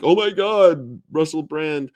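exaggerated gasp of amazement; mock excitement. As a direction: fake a starstruck exclamation. Mimics excited social media reaction.

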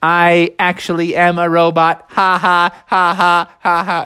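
high robotic monotone; evenly spaced robot voice; Techno Bear. Acted. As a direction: confess like a robot, with mechanical laugh. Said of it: "He's like".

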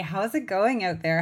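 friendly Canadian accent, rounded vowels. Real, not acted. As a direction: let the Canadian accent slip out. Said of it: "my Canadian accent just came out there".

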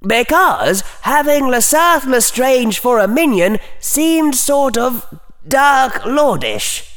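high, timid, hesitant inner voice; sheepish little voice; small mental voice. A narrator's reading. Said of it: "in a small mental voice".

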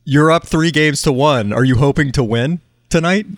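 a light put-on Chinese accent, slow and halting; a hint of a Chinese reporter's accent; mock Chinese reporter. Podcast host imitating a Chinese reporter, light Chinese accent. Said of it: "in a Mandarin accent".

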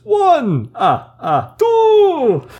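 high, loud cartoon Italian accent. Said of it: "That's an Italian accent".

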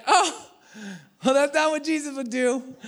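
high, prim mock rebuke; mock pious voice. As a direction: lightly mimic a preachy friend.

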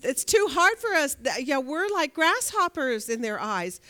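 despairing spies. Retold or imitated. Voicing the fearful spies' report.

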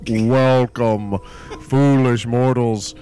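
slow, low spooky haunted-house host; ghost host. Acted. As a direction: welcome guests to a haunted mansion. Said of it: "ghost host this evening".

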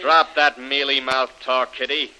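slow, scornful put-down; contemptuous. Acted. To Kitty as he rejects her act, slow contempt. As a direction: drag it out with contempt. Gangster calling her bluff.

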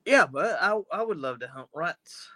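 shaky attempt at a British accent; bad British accent. Safecracker accepting owl powers, badly faked British accent. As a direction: have another go at British, badly. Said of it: "I can't do a British accent".

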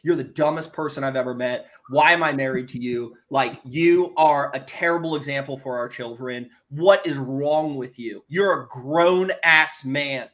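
a touch of a scolding wife, slowing at the end; wife tearing into her husband, mildly imitated; mild furious wife. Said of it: "She is furious".

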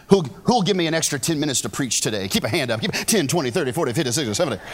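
fast auctioneer-style count-up; old school preacher talk. Acted. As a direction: rattle off the numbers like an auctioneer. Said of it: "That's old school preacher talk right there".

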